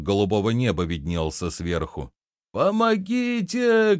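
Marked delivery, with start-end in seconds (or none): 2.5-4.0 high, slow, drawn-out cry for help; shouting for help. A narrator's reading. Fat shopkeeper crying out from the pit, drawn-out and high. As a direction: wail it up from the bottom of a pit. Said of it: "кричал толстый лавочник".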